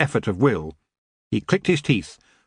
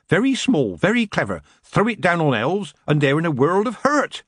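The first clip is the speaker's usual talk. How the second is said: higher-pitched, pleased witch; lightly voiced old witch; 6 semitones higher than usual. Witch tells the others about iron, pleased. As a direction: explain it with relish, pitch lifted.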